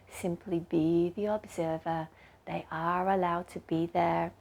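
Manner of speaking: measured, gently guiding meditation voice; guided meditation. Acted.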